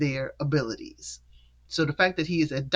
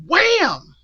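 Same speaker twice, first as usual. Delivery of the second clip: loud, drawn-out sound-effect word; exclaimed slap; 14 semitones higher, 10 dB louder than usual. Retold or imitated. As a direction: punch it out like a sudden slap. Imitates the sudden slap being retold.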